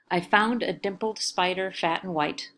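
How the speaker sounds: flowing reading of the line; poem reading. Acted. Teacher reading Frost's Design to the class, smooth and even. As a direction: read it as verse, smoothly.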